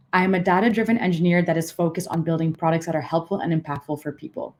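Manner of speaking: even, unstressed read of the whole sentence; just the bare sentence, monotone. Shown as a demonstration. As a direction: read the sentence plainly with no word picked out. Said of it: "That was entirely monotone".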